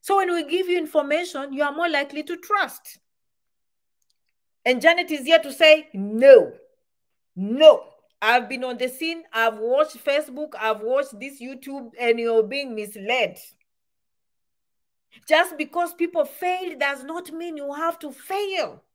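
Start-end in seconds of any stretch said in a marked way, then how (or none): 5.9-13.4 loud emphatic No, then confident; firm refusal. Retold or imitated. Janet's viewer rejects misleading advice, firm and loud. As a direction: push back firmly against bad advice.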